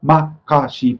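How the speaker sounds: "Makashi" as three separate syllables, ma-ka-shi; single syllables. Shown as a demonstration. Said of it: "it's all just single syllables".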